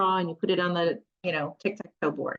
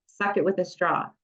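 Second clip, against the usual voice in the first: normal talking voice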